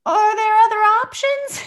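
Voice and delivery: high-pitched, dismayed question; mock dismay. Passenger offered a potty bag, mock dismay. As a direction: ask it high, hoping for a way out.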